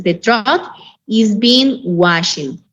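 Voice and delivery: slow, word by word English; teacher modelling the passive; slow model sentence. Shown as a demonstration. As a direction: dictate it to the class.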